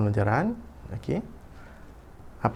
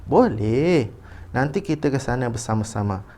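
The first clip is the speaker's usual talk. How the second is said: expressive reading. Shown as a demonstration. Teacher reads a father agreeing, expressive intonation. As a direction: swing the yes up and down in agreement. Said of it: "baca dahulu petikan dengan intonasi".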